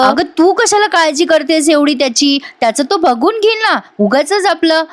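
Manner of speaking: high-pitched rude shout at her mother. Retold or imitated. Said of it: "कला ओरडते".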